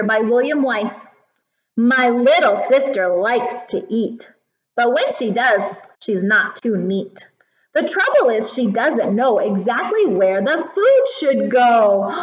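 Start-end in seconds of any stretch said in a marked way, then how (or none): 1.8-12.1 lively storytime poem reading; reading to a toddler. Acted. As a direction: read it brightly to little kids. Reads poem to children.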